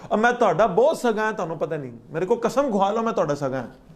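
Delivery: a light Punjabi flatterer's voice, pitch up; mock sweet-talking Satan. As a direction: play the devil oozing false friendship.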